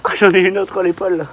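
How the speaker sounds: high pained cry from a cramp. Real, not acted. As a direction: wince through a sudden cramp. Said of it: "j'ai une crampe".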